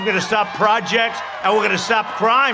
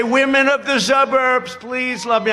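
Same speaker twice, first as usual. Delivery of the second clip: mock plea at rally pitch, higher than chat; declaimed plea; 3 semitones higher than usual. Candidate demonstrates his line to suburban women, declaimed plea. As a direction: call it out to the crowd in jest. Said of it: "when I say".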